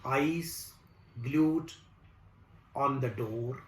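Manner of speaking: slow, measured recital with long pauses between phrases; poem recitation. Acted. Recites his own poem.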